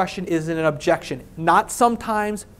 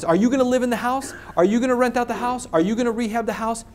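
higher-pitched seller questions, voice going up at the end; imitating questioning sellers; 5 semitones higher than usual. Seller quizzing the house buyer on plans, questioning lilt. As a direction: fire off mock seller questions in a raised pitch. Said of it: "their voice goes up at the end".

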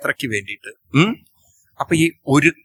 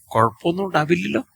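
put-on anxious child; 4 semitones higher, faster than usual. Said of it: "ഇടയ്ക്ക് ചോദിക്കാം".

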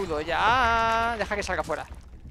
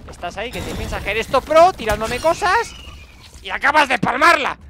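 louder, gloating jab; mock the ant that just died; taunting the defeated antlion; 2 semitones higher, 7 dB louder than usual. Real, not acted. Mocking the dead enemy.

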